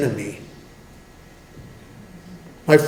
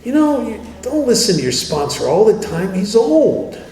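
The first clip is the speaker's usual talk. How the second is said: inner voice; 6 semitones higher than usual. Retold or imitated. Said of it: "This voice says things like".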